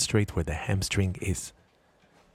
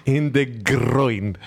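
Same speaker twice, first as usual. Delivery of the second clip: laughing; 3 semitones higher, slower than usual. Real, not acted. Laughing repeat of injury.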